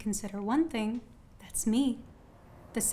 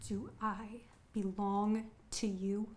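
slow pointed questioning; 6 dB quieter, slower than usual. Acted. Woman pointedly questions her admirer.

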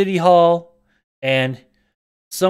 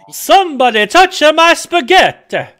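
high, loud squeal; hammed-up high meme yell; meme quote; 12 semitones higher, 7 dB louder than usual. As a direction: shriek it like the meme. Quoting the meme.

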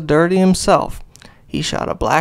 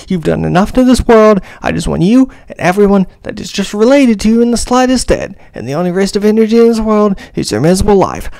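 building furious rant. Acted. Ranting at the tiny rat villain, building to an angry yell. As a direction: spit the threats as the fury boils over.

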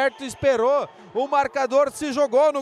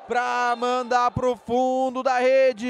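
play-by-play; slower than usual. Real, not acted. Slow shouted goal line.

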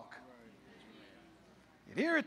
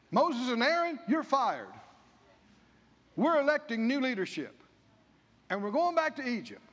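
louder, defiant declaration; mock defiant crowd; 3 dB louder than usual. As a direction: announce the firing with mock bravado. People firing their leaders.

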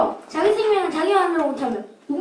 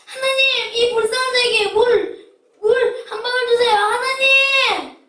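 desperate pleading; 3 semitones higher, slower than usual. Acted. Begging for water in hell.

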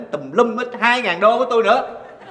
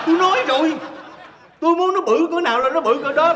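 high-pitched protest; exasperated insistence; 7 semitones higher than usual. Acted. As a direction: argue it with rising exasperation. Husband insists in argument.

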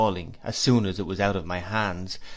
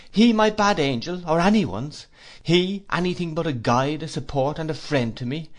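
indignant protest; 6 semitones higher, 3 dB louder than usual. A narrator's reading. Trotwood defends his friend indignantly.

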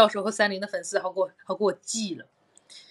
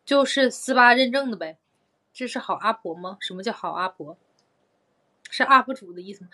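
ordinary delivery

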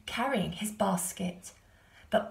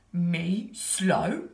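indignant bear; 4 dB louder than usual. A narrator's reading. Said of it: "said the bear".

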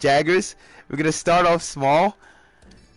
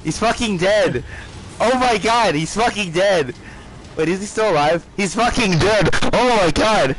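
high, loud gleeful shouts; excited yelling; 6 semitones higher, 4 dB louder than usual. Real, not acted. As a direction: celebrate the kill loudly. Monster killed, excitement.

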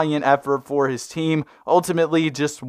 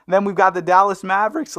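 voice crack; 5 semitones higher than usual. Real, not acted. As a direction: voice cracking upward mid-phrase. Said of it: "Did y'all hear that?".

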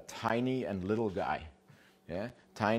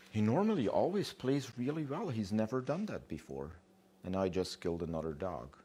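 protesting dog owner; 2 semitones higher than usual. Acted. Dog owners protesting after killing.

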